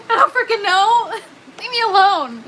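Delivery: high, loud, giggling protest; laughing exasperation. Real, not acted. Pleading with chat to leave her be, laughing. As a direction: laugh through it, overwhelmed. Flustered by viewers' questions.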